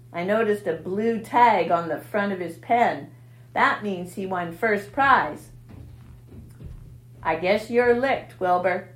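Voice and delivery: sneering, gloating rat voice; enjoy scaring the pig; taunting rat. Acted. Rat taunting Wilbur with bad news.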